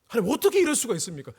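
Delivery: re-enacted indignant prayer; arguing with God. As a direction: challenge God in hurried disbelief. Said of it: "하나님께 막 따졌습니다".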